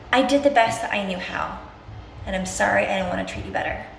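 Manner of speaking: mean every word, tenderly; sincere apology demo. Shown as a demonstration. Coach showing viewers how to apologize to themselves, heartfelt. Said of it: "So say".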